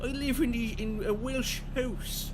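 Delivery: high, slowing, hammed-up Welsh lilt; mock Welsh accent. Playing an Englishman who lives in Wales, mock Welsh accent. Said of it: "Can't do a Welsh accent".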